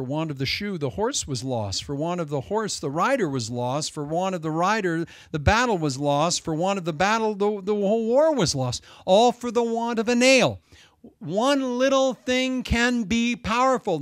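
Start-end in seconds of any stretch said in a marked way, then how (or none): 5.3-14.0 builds louder and higher to a ringing peak; preaching crescendo, slowing on the last words; rising preaching climax. Real, not acted. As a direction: drive it home, swelling line by line.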